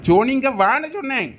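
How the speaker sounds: stern, annoyed call to his daughter; angry summons. Acted. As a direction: call her over, cross and insistent. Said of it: "இப்படி கோவமா கூப்பிடுறீங்க". (கோபமாக அழைப்பது)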